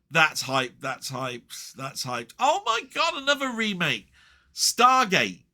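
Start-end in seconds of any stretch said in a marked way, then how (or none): 2.4-5.4 high, loud cry of fed-up disbelief; oh no, not again, throw it up high; exasperated disbelief. Real, not acted. Viewer groaning at yet another remake, exasperated high cry.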